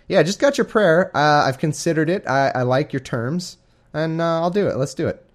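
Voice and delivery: mock God voice. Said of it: "That's what God's saying here".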